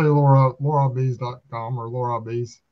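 Larrabees in the speaker's own pronunciation; own way of saying Larrabees. Shown as a demonstration. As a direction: show how you say Larrabees. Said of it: "I say".

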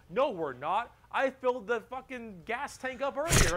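lightly voiced, loud orc boss; big orc boss. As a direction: contradict them as the orc in charge. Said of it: "And the big orc is like".

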